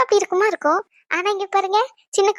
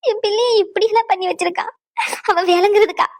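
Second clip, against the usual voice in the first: weeping then bitter outburst; tearful curse. Acted. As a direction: cry out against him. Mother crying, cursing son-in-law.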